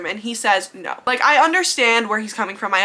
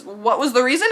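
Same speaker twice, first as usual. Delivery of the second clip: indignant why; 4 semitones higher, slower than usual. Retold or imitated. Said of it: "she's just like".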